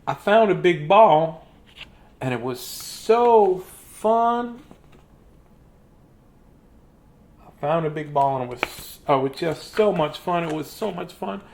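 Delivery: lightly voiced happy big guy; a slow cheerful boast. Gerald's big-guy lines.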